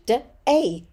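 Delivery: "D-A" split into two separate sounds; sounded out. Shown as a demonstration. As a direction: segment "D-A" sound by sound. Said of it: "Sound it out".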